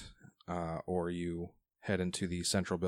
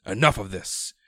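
louder, menacing undead king; ancient rasping undead king; 6 dB louder than usual. Acted. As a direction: threaten them like a ghost king. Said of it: "And he says".

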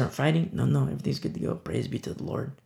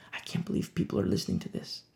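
whispered disbelief; 9 semitones lower, 10 dB quieter, faster than usual. Retold or imitated. Retold own reaction watching TBN.

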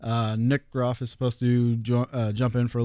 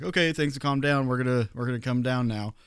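voicing aliens. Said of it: "aliens are like".

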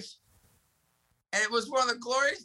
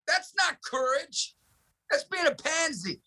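emphatic scolding; 6 semitones higher than usual. Real, not acted. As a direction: hit it hard, like calling out weakness. Preacher scolding the father's self-pity.

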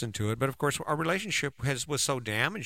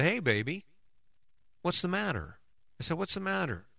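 tender concern; 6 semitones higher than usual. Retold or imitated. Husband comforting his crying wife, tender and higher. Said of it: "I ran into the fire with her".

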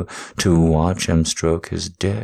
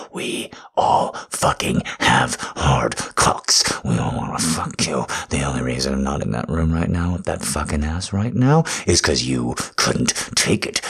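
lower, rougher dominant voice, a touch of anger; deeper, angrier; 4 semitones lower than usual. Acted. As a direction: drop the voice and let some anger in. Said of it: "talking a little bit deeper, a little bit angrier".

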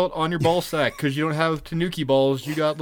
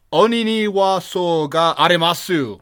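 mock Scottish ogre accent, louder, last words drawn out; Shrek; 4 dB louder, slower than usual. Translating Shrek's line for a co-host, Scottish ogre voice. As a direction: proclaim it in a put-on Scottish brogue. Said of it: "he still has, like, the Scottish accent".

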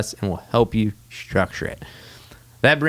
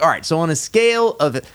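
higher-pitched exaggerated questioning; mock pressing; 5 semitones higher than usual. Adviser teasing a client who won't share their money figures, mock pressing. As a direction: put the comparison to them with playful insistence.

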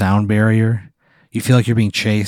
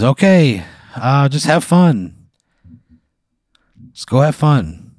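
upbeat, loud and higher; cheery guide voice; 4 semitones higher, 5 dB louder, slower than usual. Acted. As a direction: cheer them on to have fun. Guide cheerfully urging fun.

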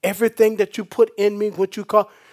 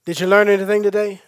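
lively sign-off; 2 semitones higher, 7 dB louder, faster than usual. Real, not acted. Closing question to audience.

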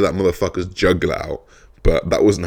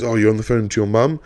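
high mocking taunt; mocking mugger; 5 semitones higher than usual. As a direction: sneer it like a street thug. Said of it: "And he goes".

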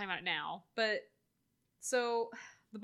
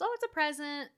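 calm and nice; 5 semitones higher than usual. Retold or imitated. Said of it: "very calm and very nice".

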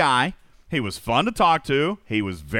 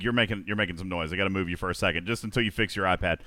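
softer off-mic aside; quiet aside; 9 semitones lower, 7 dB quieter, faster than usual. Real, not acted. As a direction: turn away and speak softly.

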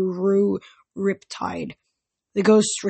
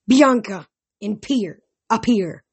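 intoned; 2 semitones higher, 5 dB louder, slower than usual. A narrator's reading. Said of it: "Nico intoned".

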